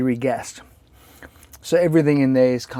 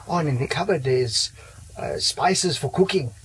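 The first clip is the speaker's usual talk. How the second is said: put-on hammy German accent, slowed at the end; bad German accent; 3 semitones higher than usual. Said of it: "bad German accent".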